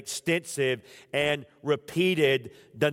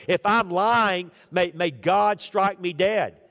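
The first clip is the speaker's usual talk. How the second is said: desperate sworn oath; 5 semitones higher, 6 dB louder than usual. Acted. Peter loudly swearing to the crowd he is not lying. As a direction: swear it loudly as if your life depends on it.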